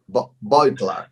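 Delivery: "Beutler" with an OY first syllable; tentative German pronunciation. Shown as a demonstration. Guest offering host a German surname, tentative pronunciation of "Beutler" as BOYT-ler. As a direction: sound out "Beutler" as BOYT-ler, after a false start. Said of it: "don't know how to pronounce".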